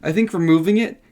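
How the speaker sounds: breathless after running; winded, catching breath between phrases. Real, not acted. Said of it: "so I'm out of breath".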